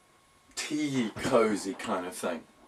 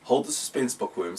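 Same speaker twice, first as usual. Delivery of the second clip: gravelly female voice. Acted. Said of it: "said a gravelly female voice".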